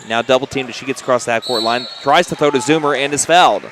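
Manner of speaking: brisk courtside game call; play-by-play. Real, not acted. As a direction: call the action as it happens. Live basketball play-by-play.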